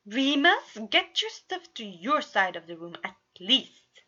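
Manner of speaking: loud call down the hall; loud call with a rising name; calling after. A narrator's reading. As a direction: call after a departing brother. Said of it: "Roman called after his brother".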